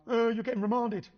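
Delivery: retold tearful whine; imitated crying. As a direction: mimic a partner in tears, lightly. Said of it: "and she's crying".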